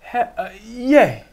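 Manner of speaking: drawn-out, high, loud hesitant yeah; reluctant yes. Retold or imitated. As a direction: mimic a stalling, reluctant agent. Agent's reluctant, hesitant answer acted out.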